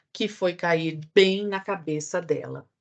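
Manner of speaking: plain reading voice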